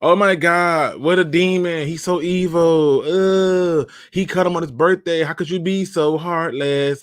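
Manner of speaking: drawn-out, overdone horror imitating the critics; mock outrage. Host imitating everybody's reaction to the birthday cut, mock horrified. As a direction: wail it slowly as if scandalized, mocking. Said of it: "And everybody is like".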